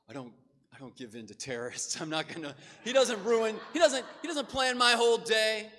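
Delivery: Freddie's defiant outburst. Retold or imitated. Freddie refusing to feed the staring cat, loud defiant shout. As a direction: protest like a stubborn kid refusing the cat. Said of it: "Freddie's like".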